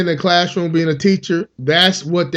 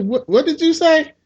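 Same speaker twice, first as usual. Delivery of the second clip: shocked teacher; 8 semitones higher than usual. Retold or imitated. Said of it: "she's like".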